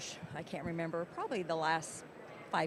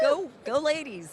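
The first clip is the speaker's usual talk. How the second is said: cheering; 6 semitones higher, 5 dB louder, slower than usual. Real, not acted. Cheering for women.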